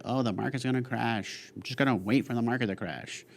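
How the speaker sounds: imitating market doomsayers. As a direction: mimic people waiting for a crash. Mimics worried market watchers.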